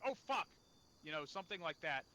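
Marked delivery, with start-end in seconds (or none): 0.1-0.5 raised, louder startled swear; mock cry of alarm; acted alarmed curse. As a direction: blurt it out as if suddenly shot at. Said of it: "I can understand going".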